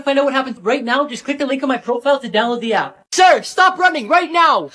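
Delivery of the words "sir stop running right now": slow, louder police order; commanding shout. Acted. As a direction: order the runner to stop. Cop chasing a suspect.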